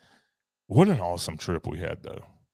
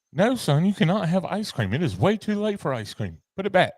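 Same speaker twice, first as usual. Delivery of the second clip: stern parent; 9 semitones higher than usual. Acted. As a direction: scold the kid firmly. Scolding son about ice cream.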